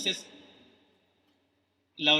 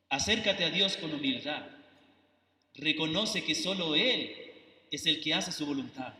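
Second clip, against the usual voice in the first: softer, moved preacher's voice; words held back by real emotion; emotional; 6 semitones lower, 5 dB quieter than usual. Real, not acted. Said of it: "Perdón si me emociono". (con emoción contenida, más suave)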